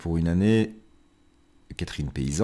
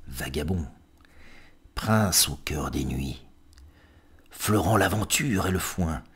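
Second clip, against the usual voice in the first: poem reading; 3 semitones lower than usual. Acted. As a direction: savour each epithet, then quieten to the end. Reads a poem aloud. (lecture de poème qui s'éteint doucement)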